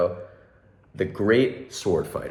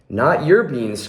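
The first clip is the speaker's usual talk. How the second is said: outraged cry; 5 semitones higher, 3 dB louder, slower than usual. Acted. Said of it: "cried Skipito, outraged".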